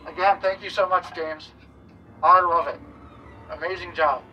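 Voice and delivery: muffled behind full-head mask; laughing inside rubber mask; through a face mask. Real, not acted. Seen 3: Full-head mask covers the speaker's face and mouth throughout the laugh.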